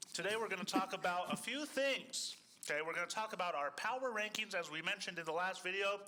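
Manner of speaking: talking while out of breath; winded, short of air. Real, not acted. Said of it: "Sorry, I'm out of breath".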